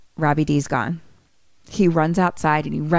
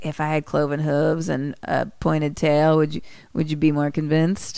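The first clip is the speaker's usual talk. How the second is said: low-key, unruffled villain voice; chill; 3 semitones lower than usual. Retold or imitated. Robbie D taunts the frantic Mickey, chill. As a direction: tease him calmly, without pushing. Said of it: "Robbie D's just fucking chill".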